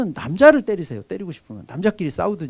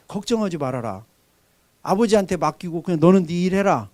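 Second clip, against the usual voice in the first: calm fatherly reassurance. Retold or imitated. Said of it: "내가 제일 많이 하는 말이".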